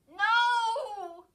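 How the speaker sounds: high, loud cry of no; exclaim. A narrator's reading. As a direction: burst out with it. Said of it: "Chris exclaimed".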